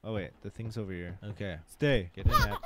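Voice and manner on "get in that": very high, squeaky laughing command; high-pitched giggly squeal. Real, not acted. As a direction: shriek it through laughter. Forcing baby into something, laughing.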